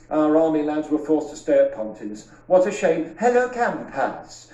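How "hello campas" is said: hammed-up Birmingham camp announcer; a light Brummie compère welcoming the guests; Birmingham accent. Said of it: "This is my Birmingham accent".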